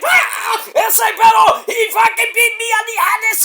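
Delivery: high-pitched mock yelp of pain; Lince Dorado. Bitten wrestler complaining about his hand, high mock shouting. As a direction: imitate an outraged, very high squealed shout. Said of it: "and Lince's like".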